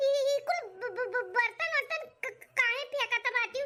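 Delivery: stammering, hesitant daughter-in-law; nervous stammer. Acted. Daughter-in-law asks mother-in-law, with a nervous stammer. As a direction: trip over the first sounds, nervously.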